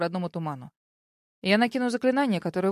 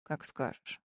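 soft unvoiced reply; whispered; 6 semitones lower, 10 dB quieter, slower than usual. A narrator's reading. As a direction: breathe it out quietly. Dragon replies softly.

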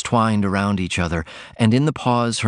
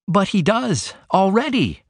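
put-on a mild burst, higher girlish voice; a touch of eager outcry; cried out; 11 semitones higher than usual. A narrator's reading. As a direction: blurt it out to mother. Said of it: "she cried".

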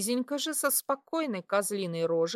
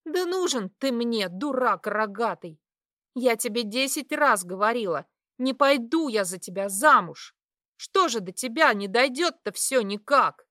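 angry; 4 dB louder than usual. Acted. Heroine yells at suitor.

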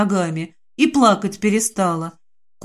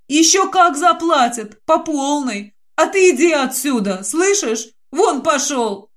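злой выкрик; 5 semitones higher than usual. Acted. Динка гонит охранника.

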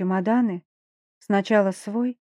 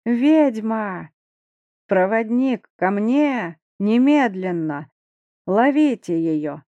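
shouting; 4 dB louder, slower than usual. Acted. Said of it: "и закричал".

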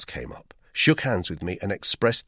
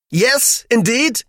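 much higher, loud eager agreement; eager wife; 11 dB louder, much slower than usual. A narrator's reading. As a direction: chime in keenly. Frau Vogel agreeing.

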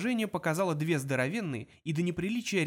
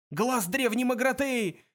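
high, slow, drawn-out cry; excited yell; 8 semitones higher, 4 dB louder, slower than usual. A narrator's reading. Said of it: "завопил Зафот".

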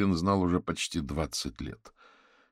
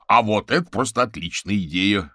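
loud, delighted exclamation; jubilant; 5 semitones higher, 10 dB louder than usual. Acted. Viktor welcomes Averin's plan to meet, jubilant. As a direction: welcome the idea with open glee. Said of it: "возликовал Виктор".

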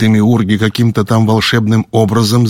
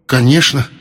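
quick answer; 6 semitones higher than usual. Acted. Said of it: "тут же ответил Ву".

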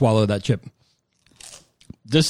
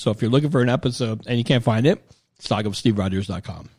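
winded, short of air; out of breath. Real, not acted. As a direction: talk as if you've run out of breath. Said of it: "I'm out of breath now".

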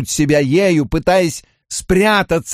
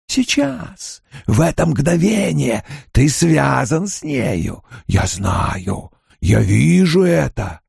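soft and coaxing; 3 semitones higher, slower than usual. Acted. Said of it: "Голос Баалзамана стал тихим, вкрадчивым".

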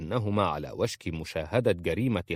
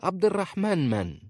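put-on a much higher, scornful old woman's voice; annoyed old woman; 11 semitones higher than usual. A narrator's reading. Khalisa scorning the name of Aisha's husband, annoyed. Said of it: "قالت في استياء".

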